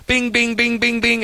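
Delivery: high, light pinging; playful pings at a high pitch; imitated notification pings. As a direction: mimic phone alerts going off.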